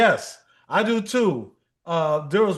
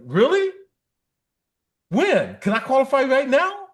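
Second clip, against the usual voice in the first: squeaky mock delight at the offer; mock eager; 7 semitones higher than usual. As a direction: fake excitement, pitched up high. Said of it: "they hate when I imitate them".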